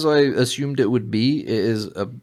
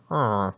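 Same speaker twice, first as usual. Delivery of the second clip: drawn-out imitated villager "aw"; villager grunt. Showing why the villager is funny, imitated grunt. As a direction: groan a short wordless villager noise. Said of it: "he keeps going".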